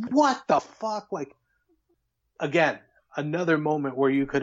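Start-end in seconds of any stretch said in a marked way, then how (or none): 0.1-1.1 high, slow what the fuck; stunned disbelief. Retold or imitated. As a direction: drag it out in amazement. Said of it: "I'm like".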